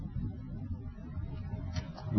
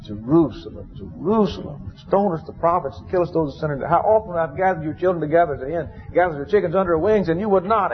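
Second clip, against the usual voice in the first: high, rising lament over Jerusalem; 6 semitones higher than usual. Retold or imitated. Jesus mourning over Jerusalem, high lamenting cry. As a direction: cry out in grief for the city, a touch of weeping. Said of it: "He wept openly and convulsively".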